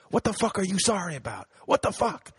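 high-pitched angry demand, not full volume; mock screaming. Italian cop screaming at a tourist, retold as a mock yell. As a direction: imitate a livid cop cursing someone out. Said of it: "He's screaming at me".

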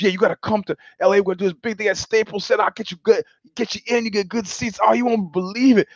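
quick, high salesman excitement; excited hype. Retold or imitated. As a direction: sell it breathlessly fast. Agent hyping the event.

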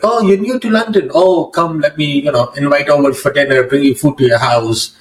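light imitation of friendly hosts; welcoming mosque people. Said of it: "people were like".

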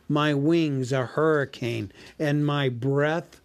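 lightly voiced, slow gloating boast; gloating dragon. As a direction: savour each word like a smug dragon. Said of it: "he gloated".

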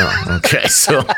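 high squeal of a laugh on oh okay; amused disbelief. Real, not acted. Laughing at seventy dollars.

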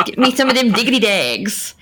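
lightly hammed Chicago accent; Mike Hollywood, Chicago accent. Shown as a demonstration. Player trots out borrowed phrases, mock Chicago accent. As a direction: imitate a Chicago guy's stock phrases. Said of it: "trying to sound like Hollywood".

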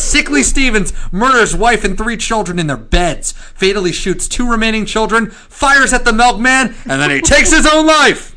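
high, loud newsboy hawking headlines; old-timey paperboy crying the news; newspaper kid. Pretend. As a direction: shout the headline like a street newsie. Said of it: "the newspaper voice".

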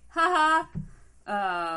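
cackling like the know-it-all adult; mock adult laugh. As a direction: ham up a smug grown-up's laugh. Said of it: "they were like".

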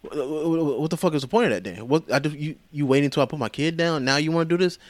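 stammering, mildly exasperated retelling; mock flustered protest; starting to freak out. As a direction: sputter in disbelief, not yet shouting. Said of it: "he's starting to freak out".

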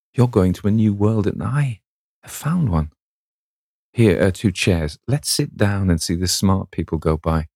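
put-on a lightly lifted, bright girlish voice; young sister teasing, pitch climbing on the happy lines; cheerful Sybil. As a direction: coax her sulky brother into being happy for her. Sybil cheerfully teasing her brother.

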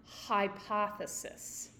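"hypothesis" set apart and pointedly emphasized; stress on hypothesis. Shown as a demonstration. Teacher questioning the diet heart claim, stressing "hypothesis". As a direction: lean on the word "hypothesis" with audible doubt. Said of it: "The emphasis on hypothesis".

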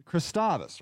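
Christovus practised as kris-TAH-vus; stress on second syllable. Shown as a demonstration. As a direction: carefully put the stress on the AH in Christovus. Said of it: "where this accent goes".

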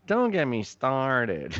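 lightly imitating the SNL character's line; SNL catchphrase. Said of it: "Saturday Night Live character, she used to say".

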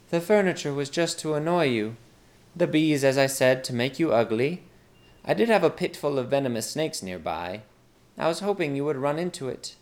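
lightly voiced maid proposing a deal; scheming maid. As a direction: offer the plot casually. Maid's dialogue in story.

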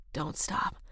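husky, low whispered plea; breathless whisper. Acted. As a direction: breathe it out, barely voiced. Aroused man pleading.

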